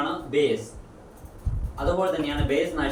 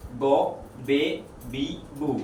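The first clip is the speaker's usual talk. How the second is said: slow syllable drill; much slower than usual. Shown as a demonstration. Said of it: "ബ്, ബ".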